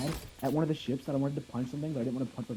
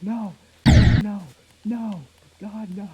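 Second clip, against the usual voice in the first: mock scream, higher and somewhat louder; retold screaming; 7 semitones higher, 13 dB louder, much slower than usual. Player retelling Ajax screaming over Calculus, mock scream. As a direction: imitate someone crying out in protest. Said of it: "screaming over Calculus".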